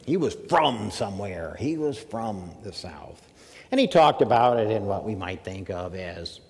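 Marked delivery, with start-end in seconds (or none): 0.5-1.6 "from" pronounced "frum", stressed; southern "frum". Retold or imitated. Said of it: "she spelled it F R U M". 2.0-2.5 "from" said as "frum"; "from" rhyming with "drum", slowly; southern "frum". Retold or imitated. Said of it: "she spelled it F R U M".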